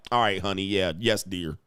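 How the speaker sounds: low, placating husband voice; meekly compliant. Acted. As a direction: give in meekly and keep it low.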